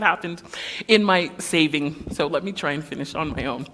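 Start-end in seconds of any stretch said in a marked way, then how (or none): 2.1-3.7 fumbling for words. Real, not acted. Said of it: "if I sound like I'm stumbling".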